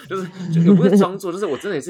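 burst of laughter. Real, not acted. Laughs recalling faked surprise.

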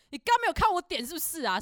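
mock yell; retold loud reply. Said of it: "他超大声回我说".

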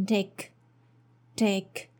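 "tick" almost "dick", light flapped t. Shown as a demonstration. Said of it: "the t sound here is a flap T".

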